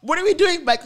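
high, drawn out through laughter; laughing. Retold or imitated. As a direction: laugh your way through the question. Cracking up while retelling her reply.

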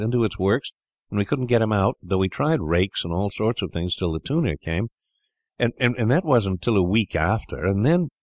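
a hint of a boy rushing a memory; lightly voiced eager boy. Brother reminiscing to siblings, lightly voiced eagerness. Edward recalls the piano mouse.

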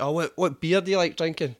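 asking brightly like a visitor; Italian guys. Retold or imitated. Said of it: "they're like".

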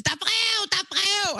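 high-pitched mock announcement call; imitated calling out. Imitating contestants announcing that mail has come, calling out high. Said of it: "de råber jo altid".

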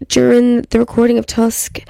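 a small burp caught in the words. Real, not acted. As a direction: speak through a little burp. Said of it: "just a little burp".

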